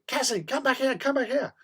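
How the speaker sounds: high, carrying call, repeated. Retold or imitated. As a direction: call the dog back insistently. The girls calling their dog.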